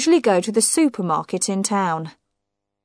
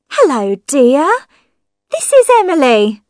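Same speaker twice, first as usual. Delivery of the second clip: tinny talking telephone; 7 semitones higher, 7 dB louder than usual. Acted. Wife's voice over the telephone.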